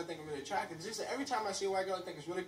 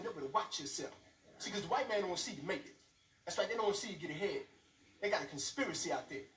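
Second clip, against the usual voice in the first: mock paranoid brother. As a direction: lean in and warn the family darkly. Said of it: "he was like".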